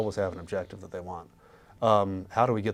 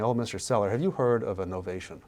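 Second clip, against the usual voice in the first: mock show-off pitch to a seller, a bit louder; smug know-it-all investor; 3 semitones higher, 5 dB louder than usual. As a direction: show off like a salesman who loves his own jargon. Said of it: "wanting to show how smart we are and saying".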